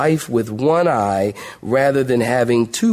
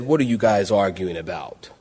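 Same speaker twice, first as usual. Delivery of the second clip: Jesus asking; 7 semitones lower, 4 dB quieter than usual. Retold or imitated. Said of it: "Jesus ... said".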